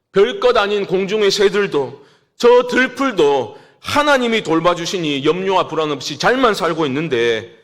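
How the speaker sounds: ordinary talk, nothing marked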